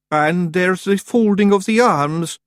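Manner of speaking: high, slow, loud spooky Scots; self-scaring dread. Acted. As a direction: frighten yourself as you say it. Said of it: "he was even scaring himself".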